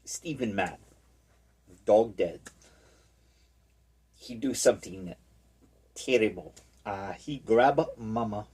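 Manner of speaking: mock broken-English accent, halting; stereotyped foreign accent. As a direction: tell it in a put-on foreign accent with long pauses. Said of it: "I'm doing like a stereotype".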